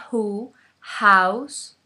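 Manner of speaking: "house" with a breathy h like a Spanish j; aspirated h. Shown as a demonstration. Teacher showing the English h to Spanish speakers. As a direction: breathe out hard at the start of "house". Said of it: "como una J de Juan".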